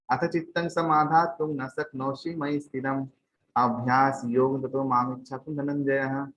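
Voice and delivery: measured Sanskrit scripture recital; verse recitation. Acted. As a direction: recite the verse syllable by syllable, drawing out its close.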